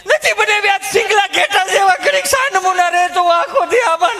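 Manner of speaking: high, fed-up village wife voice; high whiny wife complaining about the kids; complaining housewife. Retold or imitated. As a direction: grumble like a harried mother.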